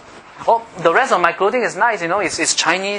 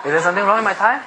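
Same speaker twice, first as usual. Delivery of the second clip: laughing; 4 semitones higher, faster than usual. Real, not acted. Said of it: "It's funny".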